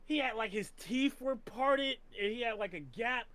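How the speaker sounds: incredulous rant. Retold or imitated. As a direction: rant like you can't believe the movie did this. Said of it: "I'm like".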